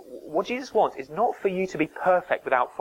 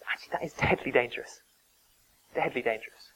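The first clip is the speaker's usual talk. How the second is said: hushed warning; 2 semitones lower, 6 dB quieter than usual. Real, not acted. Solemn warning in sermon.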